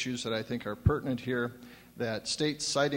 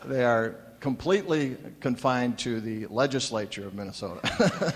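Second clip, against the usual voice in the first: chuckling through the words; laughing at his own joke; 3 dB louder than usual. Real, not acted. Joking jab while laughing.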